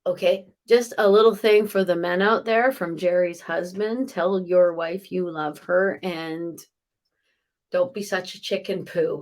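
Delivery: ordinary talk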